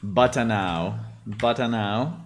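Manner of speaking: mock cartoon Italian "Batanao", rising; cartoonish Italian. Shown as a demonstration. Imitating the cartoonish Italian AI voice. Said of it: "I will say".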